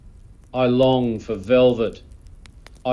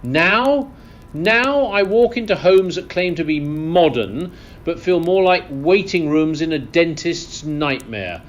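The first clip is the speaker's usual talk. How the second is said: high-pitched indignant rant; mock-outraged aristocratic tirade; theatrical indignation; 4 semitones higher than usual. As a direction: rail against it like an appalled lord. Lord rants against modern homes.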